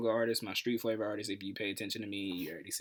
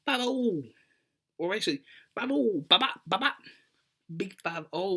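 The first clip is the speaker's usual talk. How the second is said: much higher, loud chant of big five oh; hyped celebration; 10 semitones higher, 5 dB louder than usual. Acted. Vlogger celebrating fifty subscribers, high and hyped. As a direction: hype the milestone like a hype man.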